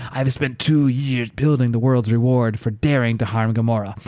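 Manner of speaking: hammed-up evil laugh then grand villain speech; host committing to the villain voice; gleeful villain. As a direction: relish every word like a cackling mastermind. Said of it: "Now I'm into it".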